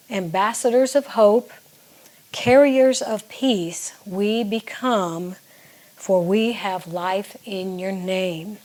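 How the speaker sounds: slow, measured recitation of draft lyrics; reading lyrics aloud. Shown as a demonstration. Songwriter reading verse one to viewers, slow and measured. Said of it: "the second part of the first verse".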